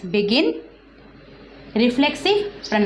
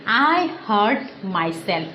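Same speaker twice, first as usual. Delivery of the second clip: slow example; slower than usual. Shown as a demonstration. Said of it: "Now, for example".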